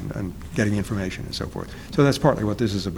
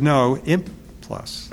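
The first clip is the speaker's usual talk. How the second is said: "imp" punched high, then a gap before "plus"; stress on imp; 4 semitones higher, much slower than usual. Retold or imitated. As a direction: correct them by hitting "imp", slowly. Correcting people who say just plus.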